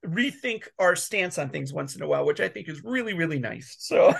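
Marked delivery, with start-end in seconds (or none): 3.8-4.1 sudden sneeze; a quick sneeze mid-word; sneezing. Real, not acted. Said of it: "Sorry, I sneezed".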